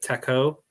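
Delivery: Taco with a short "a" as in "tack"; alternative pronunciation. Shown as a demonstration. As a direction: ask Taco as "TACK-oh", rising. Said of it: "Is that how you say it?".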